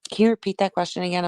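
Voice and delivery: talking while crunching ice; words around a chunk of ice; ice in mouth. Real, not acted. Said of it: "I was crunching ice".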